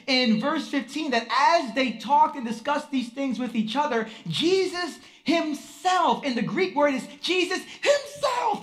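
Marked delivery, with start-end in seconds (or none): 4.3-8.6 "himself" lifted high and leaned on, "Jesus" slow; stress on himself. Shown as a demonstration. Showing the Greek accent on "himself" to the church, pressed stress on himself. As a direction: hit "himself" hard, the way the Greek does. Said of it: "that's how the accent is on himself".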